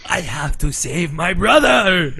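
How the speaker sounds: lightly hammed-up dramatic anime hero, slowly; drawn-out mock heroic cry; mock dub hero. Friend parodying the bad dub to the others, mock dramatic.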